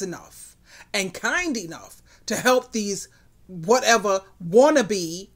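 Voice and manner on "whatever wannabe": "wannabe" slowed and punched; stress on WANNABE. Real, not acted. Woman belittles men who play boss, stressing "wannabe". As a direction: drag out "wannabe" with pointed emphasis. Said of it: "I do put emphasis on wannabe".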